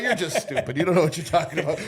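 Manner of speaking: quick chef's retort through laughter; fast, laughing put-down. Retold or imitated. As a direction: laugh as you brush off the kid. Chef voiced laughing.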